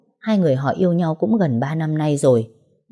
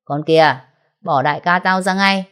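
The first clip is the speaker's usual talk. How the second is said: louder threatening order; thug barking; 3 dB louder than usual. Acted. Henchman orders her to free their boss, loud threat. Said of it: "rồi quát".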